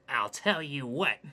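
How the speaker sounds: Hayden's prim macho catchphrase; goody-goody mode. Acted. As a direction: play the preachy good boy. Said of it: "goody-goody mode".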